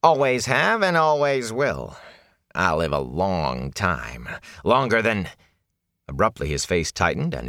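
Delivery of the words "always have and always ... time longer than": boastful ragged peddler. Acted.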